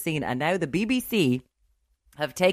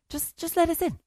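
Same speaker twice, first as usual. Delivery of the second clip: mock pleading; 13 semitones higher than usual. Begging the BBC for iPlayer.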